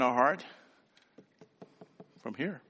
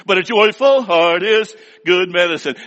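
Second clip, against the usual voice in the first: joyful punchline; 8 dB louder than usual. Retold or imitated. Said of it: "then she would pause, dramatic pause".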